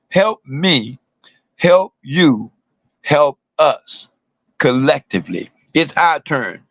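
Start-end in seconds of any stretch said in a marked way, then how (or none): 0.1-5.5 spaced out with pauses, each help drawn out; slow it down so the crowd gets every word; said real slow. Shown as a demonstration. Repeating the chant real slow for the crowd. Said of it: "gonna say it again real slow".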